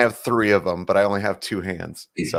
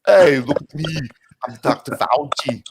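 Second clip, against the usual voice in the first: Schwarzenegger impression; 3 semitones higher than usual. Friend introduces Schwarzenegger Theater, then speaks in a Schwarzenegger accent. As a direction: bark it like Arnold Schwarzenegger. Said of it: "Welcome to Schwarzenegger Theater".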